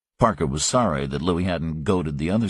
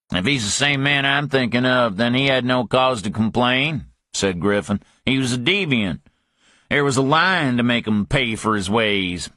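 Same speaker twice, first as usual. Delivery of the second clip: higher, righteous Southern thug; Griffin, defensive; 5 semitones higher than usual. Acted. Griffin defending himself to Parker, higher pitch. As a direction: justify it with a sneer.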